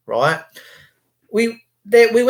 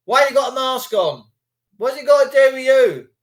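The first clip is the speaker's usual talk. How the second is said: mock anti-masker row; 7 semitones higher than usual. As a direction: play the lairy bloke wanting a row. Mocking aggressive anti-masker.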